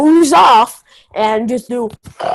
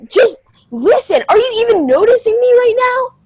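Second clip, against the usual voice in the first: exasperated scolding; 5 semitones higher than usual. Acted. Friend scolds sleepy friend.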